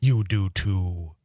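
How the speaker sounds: slow Wisconsin drawn-out vowels; Wisconsin drawl. Shown as a demonstration. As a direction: draw out the vowels, Wisconsin style. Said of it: "sort of draw out the vowels a little more".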